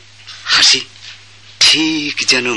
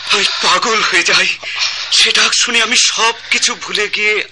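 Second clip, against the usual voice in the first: rapturous pleading; 10 semitones higher than usual. Acted. Disciple pours out his longing.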